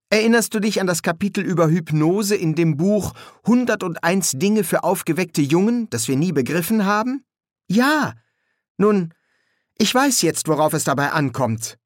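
put-on high, lively child's voice; eager boy. A narrator's reading. Adam explains the hypnosis chapter to Pepper, eager boy. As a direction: explain it in a high boyish voice, sure of yourself.

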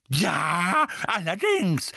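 loud, high, furious agreement; screaming. A narrator's reading. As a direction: shout it back fiercely. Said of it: "schrie Misses Figg".

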